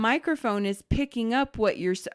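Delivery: imitating a tech teaching the obvious; retold over-explaining; patronizing explanation. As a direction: explain it very carefully, as if to a beginner. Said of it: "is literally explaining to me".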